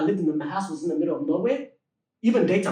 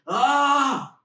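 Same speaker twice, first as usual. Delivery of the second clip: higher mock yell, held back; imitated yell; 6 semitones higher than usual. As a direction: imitate a man yelling in his sleep. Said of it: "he woke me up by yelling".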